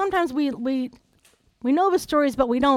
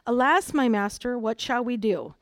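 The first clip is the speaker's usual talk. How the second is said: understated Bible-reader delivery; 3 semitones lower than usual. Shown as a demonstration. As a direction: read it mildly, as if nothing is wrong. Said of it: "it sounds like this".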